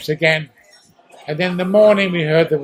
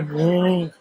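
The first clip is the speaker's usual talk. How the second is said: all-clear siren imitation; 2 semitones lower, 4 dB quieter than usual. Repeating the all-clear siren for the interviewer, soft wail. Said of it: "So there's the all clear".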